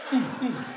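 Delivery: low closed-mouth moan; short hummed grunts; muted mock moan. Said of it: "their ringtone, they different".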